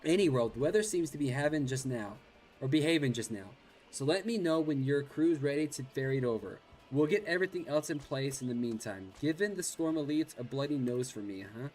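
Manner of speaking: pirate voice. Acted. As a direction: keep up the gruff pirate. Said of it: "you're supposed to sound like a pirate".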